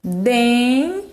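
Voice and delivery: "Den" sounded through the nose as a lone syllable; nasal syllable. Shown as a demonstration. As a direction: isolate "Den" and let it ring nasal. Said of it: "olha como é nasal". ("Den" isolado, bem nasal)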